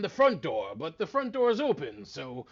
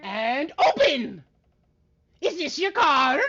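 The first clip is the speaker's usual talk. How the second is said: card magician patter; 9 semitones higher, 8 dB louder, slower than usual. Acted. Magician reveal.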